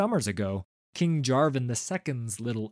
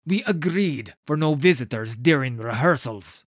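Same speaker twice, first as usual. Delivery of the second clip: louder, higher reproachful director; stern director; 4 semitones higher, 7 dB louder than usual. A narrator's reading. Director scolding his performers, stern and raised. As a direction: remind them firmly of the rules.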